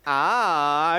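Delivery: low door groan; creaking door voice. Acted. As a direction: imitate the door shutting. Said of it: "दरवाजा परत लागला".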